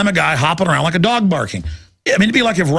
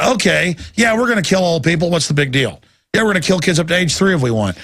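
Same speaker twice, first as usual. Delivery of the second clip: mocking system voice; 4 semitones higher than usual.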